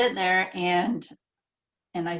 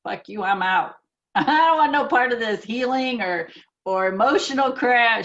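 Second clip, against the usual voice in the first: mock dismissive outburst, rising louder and higher; defiant refusal; 4 semitones higher, 4 dB louder than usual. Teacher voicing a guarded woman's human self, mock defiant. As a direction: imitate a guarded person refusing. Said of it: "her human self is like".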